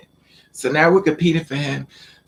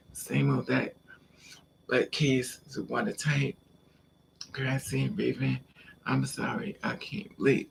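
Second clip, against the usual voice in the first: much softer, off-the-cuff murmur; quiet aside; 11 dB quieter than usual. Real, not acted. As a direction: drop the volume right down, as if to yourself. Muttered aside, off the story.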